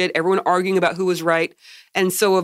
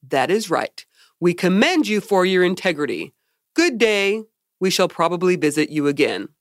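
slack jawed. Retold or imitated. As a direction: play it dopey and simple. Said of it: "in his, like, dopey voice".

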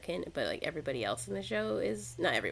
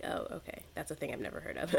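quiet; 6 dB quieter, faster than usual. Retold or imitated. Quoting own realization.

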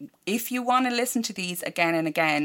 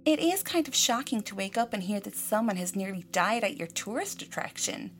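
off-the-cuff Midwestern quote voice; Midwestern accent; 4 semitones higher, 4 dB quieter than usual. Acted. Owner quoted on her tourist attraction, mock Midwestern accent. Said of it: "I just did it there off the cuff".

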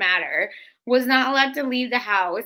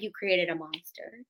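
defiant retort; 4 semitones lower than usual. Retold or imitated. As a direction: dig in and refuse. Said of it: "And I was like".

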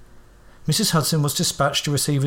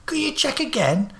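much higher blustering Cockney voice; 10 semitones higher than usual. Acted. Holmes pushing past the guard, blustering Cockney. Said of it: "trying to bluster my way in".

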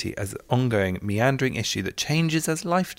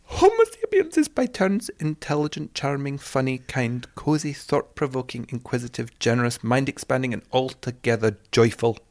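patchy put-on Scottish accent; lightly held Scottish imitation; 4 semitones higher than usual. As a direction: read the list in an amateur Scottish accent. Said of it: "I'm sorry, patchy Scottish accent".

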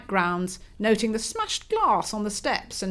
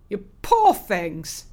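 sympathetic; 4 dB louder, much slower than usual. Acted. Father comforting, slowly.

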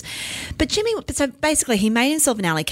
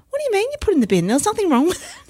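outraged; 12 semitones higher, much faster than usual. Retold or imitated. Son outraged chicken binned.

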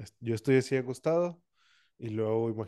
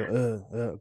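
muffled grunting, as if trying to speak asleep; imitated sleep grunt. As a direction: grunt without managing a word. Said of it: "un gruñido".

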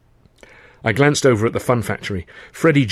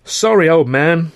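sympathetic; 7 semitones higher, 6 dB louder, slower than usual. Acted.

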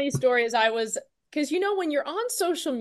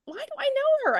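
puzzled wondering; 13 semitones higher than usual. Retold or imitated. Fan trying to place a celebrity at dinner, high and baffled. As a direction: puzzle over a face she can't place. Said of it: "I'm like".

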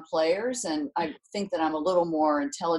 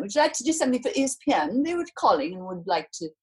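rapid imitation English accent; faster than usual. Agent relaying a TV network's offer, imitated English accent. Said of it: "with this English accent".

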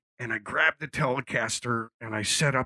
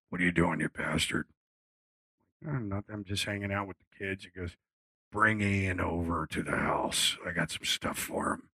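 lower, quieter imitation of Mick on the phone; 4 semitones lower, 4 dB quieter than usual. Mick calling the singer at Christmas, low and quiet. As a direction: drop low and hushed to play Mick.

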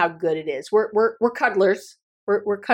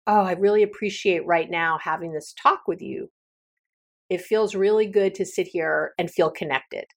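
heartfelt appreciation. Shown as a demonstration. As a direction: savour each word as you say it. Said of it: "You can hear it in my voice".

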